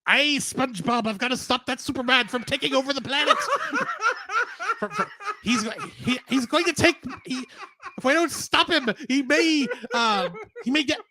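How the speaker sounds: hammy crab captain impression; Mr. Krabs voice. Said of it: "this is not a good pirate voice".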